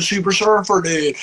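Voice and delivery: lightly voiced surfer dude; a hint of laid-back surfer; super surfer dude. Shown as a demonstration. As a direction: slip into a mild surfer-dude voice. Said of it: "suddenly I'll start talking like".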